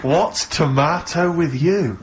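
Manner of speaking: drawn out slowly, savouring the pun What's tomato with you; slow amused repeat. Retold or imitated.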